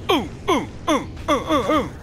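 high hyped ooh's; excited hooting. Real, not acted. Gamer hyping himself up, high excited hoots. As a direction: hoot like you're hyped.

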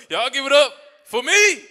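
mock hype shout. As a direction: hype up the crowd for yourself. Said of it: "This shit is kinda fun".

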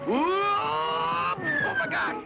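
sudden high yelp of alarm; shocked gasp mid-fall; startled cry. Acted. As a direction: caught off guard as he slips. Man slips over crocodiles.

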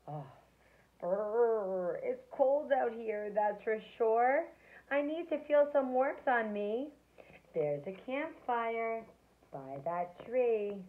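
cold, shivering snowman voice. Acted. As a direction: shiver through the words.

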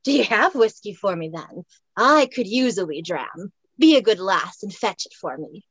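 a light Scots voice asking for a dram; Highland man. Acted. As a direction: coax the lass to fetch a wee dram in a Scots voice. Highlander voice held.

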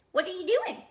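high, loud curious question; friendly rabbit. Acted. Rabbit asking Bird what he is up to, high and eager. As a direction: ask brightly, pitch lifting.

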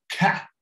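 Cat with an open, front A; open A sound. Shown as a demonstration. Teacher showing the new symbol, Cat with open A. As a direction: open up the vowel in Cat, between A and E. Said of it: "E é o som A".

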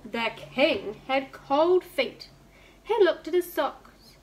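lively storybook reading with voiced characters; reading to children. A narrator's reading. Teacher reading a picture book to her class online. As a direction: read it out to little ones, bright and clear.

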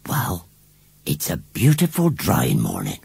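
upset village washerwoman; agitated washerwoman. A narrator's reading. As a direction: blurt it out in short agitated jerks.

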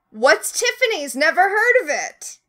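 clueless. Retold or imitated. Henry voiced, clueless.

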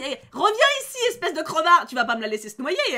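hammed-up call to come back; mock angry shout. Shouting at the companion who runs off, mock angry.

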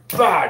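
sudden "bah" as a punch sound; mock impact noise, punched out; imitated punch noise. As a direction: act out the blow landing. Mimics the blow he would land.

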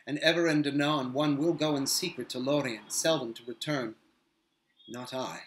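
lightly voiced grave captain, measured; Faramir, grave. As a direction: speak as a grave, wary captain of men.

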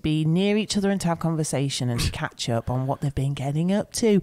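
a hint of a cheery local DJ; breezy radio presenter patter, lightly done. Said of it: "talk in some sort of local radio voice".

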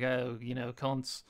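put-on a light Australian accent, offhand; faint Australian accent, dismissive. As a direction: toss it off like a casual Aussie. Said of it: "I don't know why I made him Australian there".

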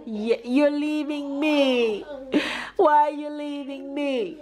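put-on slow sing-song baby talk; playful mock whine. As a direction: tease her gently, drawn out. Baby talk lament to toddler.

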